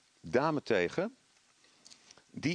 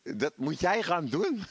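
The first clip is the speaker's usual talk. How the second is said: a light hint of a nagging inner voice; mildly voiced whisper of doubt; inner little voice; 5 semitones higher than usual. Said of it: "dan krijg je zo'n stemmetje". (licht gespeeld stemmetje)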